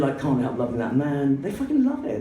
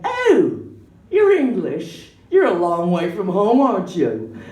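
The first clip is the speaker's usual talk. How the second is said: gushing American customers; 3 semitones higher, 4 dB louder, slower than usual. Retold or imitated. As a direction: imitate tourists cooing at a foreigner. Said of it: "I really hate people in America going".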